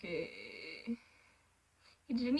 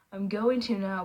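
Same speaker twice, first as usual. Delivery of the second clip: a touch firmer and louder; harder, firmer; 4 dB louder than usual. Acted. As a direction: insist a little more. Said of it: "voice a little harder this time".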